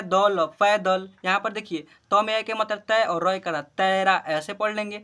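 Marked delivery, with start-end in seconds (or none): 0.0-1.1 slow sounding out. Shown as a demonstration. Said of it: "प में ऐ की मात्रा पै".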